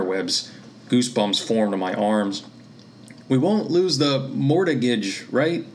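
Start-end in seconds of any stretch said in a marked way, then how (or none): 3.3-5.6 yelled. Acted. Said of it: "I yelled".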